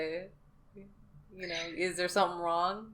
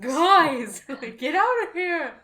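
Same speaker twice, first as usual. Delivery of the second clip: raised, higher-pitched mock shopkeeper holler; angry shopkeeper yell; 7 semitones higher, 6 dB louder, slower than usual. Shopkeeper shooing tripping customers, mock angry yell. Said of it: "angry shopkeeper yelling at us".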